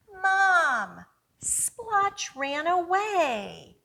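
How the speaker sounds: put-on a kid rushing to tell Mom; worried boy. Boy character calls to mother.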